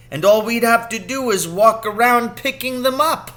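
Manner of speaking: excited father spinning a scheme; growing excitement. A narrator's reading. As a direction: build the plan up into glee. Father's plan grows ever more excited.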